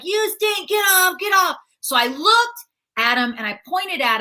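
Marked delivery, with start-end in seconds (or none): 0.1-1.6 higher mock heckle; a hint of a rude heckler; kid heckling. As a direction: jeer it like a bratty kid. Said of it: "And he's like".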